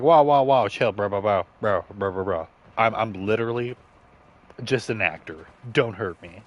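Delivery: loud, frantic mock panic, begging him to back off; hammed-up scared actor, bro after bro; panicked actor pleading. Retelling the movie, the fake villain begs Iron Man in loud panic. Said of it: "And he's like".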